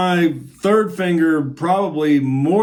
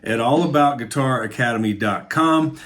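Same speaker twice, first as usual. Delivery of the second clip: upbeat ad read; 2 semitones lower than usual. Acted. Teacher pitching his course to guitar friends, ad read. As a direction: sell the course like a quick sponsor spot.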